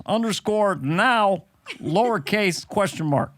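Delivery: a hint of presidential voice, spelling it out; lightly voiced president dictating. President dictating an absurd password to his wife, lightly impersonated.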